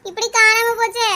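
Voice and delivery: acted tearful wail; weepy, hammed-up grieving; crying lament. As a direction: bemoan it through stagey tears. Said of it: "ஏன் அழுதுகிட்டே கிடக்கா".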